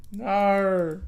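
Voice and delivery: loud protesting cry; real shout. Real, not acted. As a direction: yell it in genuine dismay. Reacting to game event, shouting.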